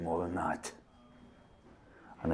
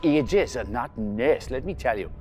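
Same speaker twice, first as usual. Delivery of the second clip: louder, higher grumbling; loud complaint; 6 semitones higher, 9 dB louder than usual. Acted. Victor complaining to the doctor about the nurse, loud. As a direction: bluster at the doctor.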